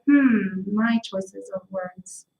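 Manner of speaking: slow, soft, wry admission; wry self-mockery. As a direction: drag it out, caught red-handed. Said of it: "I look at my mouth and I'm like".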